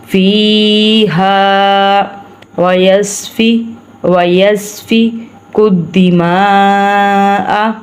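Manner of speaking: very slow chanted recitation. Shown as a demonstration. Teacher recites verse slowly for students. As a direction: intone slowly.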